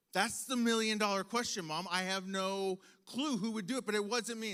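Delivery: put-on loud, exasperated child's defence; indignant protest. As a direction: imitate an accused kid pleading innocence. Acted quarrel, child protesting to mother.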